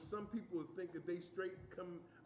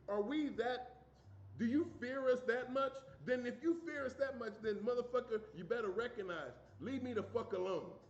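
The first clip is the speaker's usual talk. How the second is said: raised, heated demand; angry; 4 semitones higher, 3 dB louder than usual. Real, not acted. Angry man ranting at police, raised angry voice. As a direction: yell it at the police, furious.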